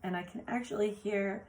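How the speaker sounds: usual speaking voice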